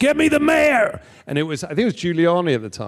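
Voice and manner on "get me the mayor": shrill, very high-pitched, loud shout. Recalling an interviewee who kept them waiting, the speaker retells his shout: retelling a shout. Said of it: "he shouts".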